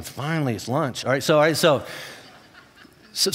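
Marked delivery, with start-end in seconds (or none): 0.0-1.0 mock relief. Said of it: "So you're going".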